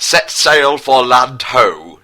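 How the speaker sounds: slow, loud ship's command; commanding captain. Acted. Prince orders his men to sail, slow loud command. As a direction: bellow orders to the crew. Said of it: "said Prince Harry to his men with seamanship".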